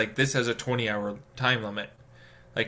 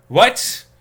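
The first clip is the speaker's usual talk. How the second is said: high, loud incredulous question; baffled disbelief; 10 semitones higher, 10 dB louder than usual. Acted. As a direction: burst out in disbelief after a sigh. Baffled reaction to instructions.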